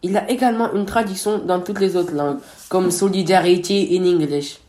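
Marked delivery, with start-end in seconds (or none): 2.9-4.6 English words in a thick blédard accent. Real, not acted. The speaker giving his co-host the English translation, blédard accent. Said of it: "ton accent de blédard".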